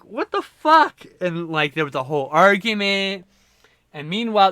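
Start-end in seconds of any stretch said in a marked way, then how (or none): 0.0-1.1 high, slow, louder shout; outraged yell. Retold or imitated. Couple yelling at the roommate. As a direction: stretch it out in disbelief. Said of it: "they're like".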